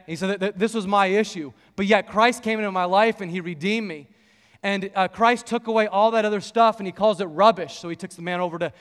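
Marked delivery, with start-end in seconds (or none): 0.1-7.8 retelling Marvin, voice rising louder; a hint of a fired-up preacher; preacher mode. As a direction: start building into a sermon. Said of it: "he's just kind of in full preacher mode now".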